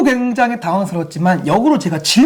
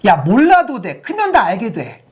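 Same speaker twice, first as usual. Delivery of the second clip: dismissive parent; slower than usual. Retold or imitated. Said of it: "대부분 어떻게 얘기하냐면".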